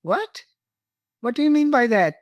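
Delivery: startled high "What?", then a sharp challenge; indignant "What?". Retold or imitated. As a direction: bristle at the question, pitch jumping up. Retold quarrel with husband.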